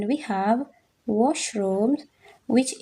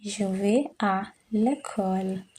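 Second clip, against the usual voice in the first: slow model sentence. Shown as a demonstration. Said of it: "teacher models the sentence".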